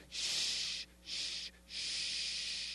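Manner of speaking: soft unvoiced shh, drawn out; whispered shushing. Enemy hushing us as the knife goes in, whispered. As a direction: hush the victim gently while killing him.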